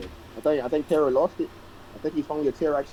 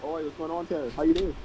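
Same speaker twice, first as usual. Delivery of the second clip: put-on cheeky British accent, pitched up; 3 dB quieter than usual. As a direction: play a bold British rogue haggling. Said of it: "He's doing an accent".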